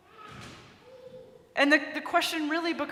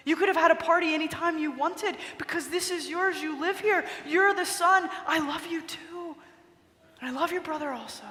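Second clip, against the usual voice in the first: weeping father; 2 semitones higher than usual. Retold or imitated. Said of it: "The father begins to weep".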